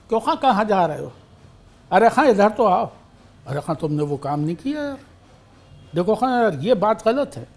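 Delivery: lively Bhopali calls, leaning on खां; Bhopali address. Shown as a demonstration. Bhopali friends calling each other खां, lightly voiced. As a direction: toss in खां the way a Bhopali would. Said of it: "उस खां का इस्तेमाल होता है".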